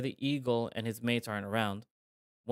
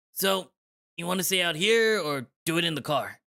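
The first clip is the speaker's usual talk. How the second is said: mock flirty; 5 semitones higher, 5 dB louder than usual. Tom flirts to fluster eagle.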